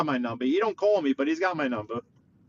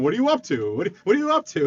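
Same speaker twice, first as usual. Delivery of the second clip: lightly imitated parrot with an accent; pestering parrot; 4 semitones higher, 3 dB louder, faster than usual. Parrot keeps asking its owner, lightly mimicked accent. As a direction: repeat it like a nagging pet bird. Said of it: "Keeps asking him".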